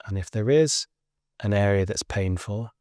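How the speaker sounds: unhurried guiding voice with long pauses; guided relaxation. Acted. Teacher guiding listeners lying on the floor to let go, guided relaxation. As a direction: lead them gently through a body scan, leaving space between phrases. Leads a guided body scan.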